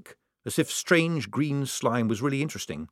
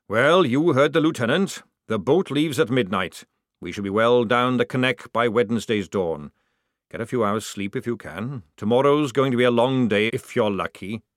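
louder commanding sergeant; Jackram giving orders; 2 semitones higher, 4 dB louder than usual. Acted. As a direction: order the squad to rest.

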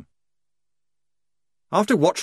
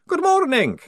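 very high, odd voice of a vampire; a strange, high creature greeting from upside down; 6 dB louder than usual. A narrator's reading. Vampire Otto greets Polly from the ceiling, high and strange.

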